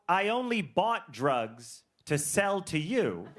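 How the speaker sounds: slow, sincere-sounding mock confession; earnest confession. Dealer texting a newly sober client, earnest confession. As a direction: confess it slowly, as the caring dealer.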